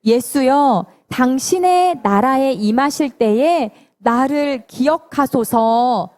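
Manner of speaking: slow, measured verse recitation; drawn-out scripture reading; unison scripture reading. Real, not acted. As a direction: lead a group reading, stretching each phrase. Leads unison Bible verse reading.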